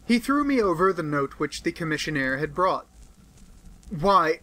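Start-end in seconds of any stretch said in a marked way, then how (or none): 3.9-4.4 cried out. Acted. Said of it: "I cried".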